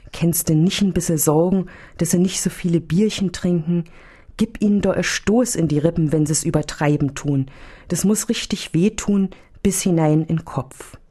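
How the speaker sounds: homely dialect, lightly voiced; a hint of a chatty old nun in dialect. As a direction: fuss to Jesus in dialect. Old nun talks to Jesus.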